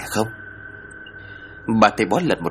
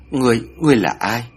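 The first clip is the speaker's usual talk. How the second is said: trembling question; 3 semitones higher than usual. Acted. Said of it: "run rẩy hỏi".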